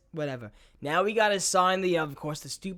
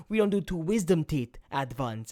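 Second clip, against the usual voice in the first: lightly voiced grumpy dentist; miserable dentist; 4 semitones lower, 4 dB quieter than usual. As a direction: imitate an unbudging dentist, a little lower. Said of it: "He goes".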